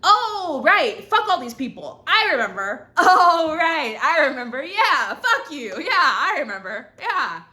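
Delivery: high, loud, laughing "oh, right"; laughing self-reminder. Retold or imitated. Reminding herself she doesn't care, laughing loud. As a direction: laugh as it dawns on you. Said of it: "You really just have to remember, like".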